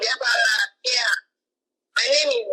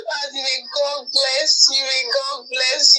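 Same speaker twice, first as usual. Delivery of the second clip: tearful blessing. Real, not acted. Overjoyed caller blesses host.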